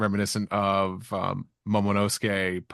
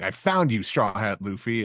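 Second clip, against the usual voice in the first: mock yell. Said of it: "someone's yelling".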